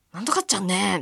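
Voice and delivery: lightly imitated grumbly Hakata ending; slightly scary Hakata. Shown as a demonstration. Host showing why Hakata sounds scary, mild grumble. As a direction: give the dialect ending a touch of complaint. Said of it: "ちょっと怖いイメージがある".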